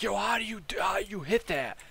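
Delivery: high-pitched, incredulous imitation; mock bewilderment. Newbie asking after coughing up a lung, bewildered.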